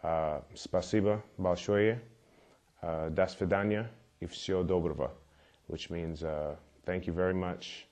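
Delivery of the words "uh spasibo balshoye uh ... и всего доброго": spasibo balshoye and do svidaniya и всего доброго said in careful learner's Russian; a bit of Russian. Shown as a demonstration. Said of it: "I'm gonna give a little bit of Russian here for you".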